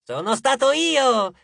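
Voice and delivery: slow, high, loud boast; triumphant drawn-out shout; proud yell. A narrator's reading. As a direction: claim the credit at full voice. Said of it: "urlò uno dei suoi figli con orgoglio".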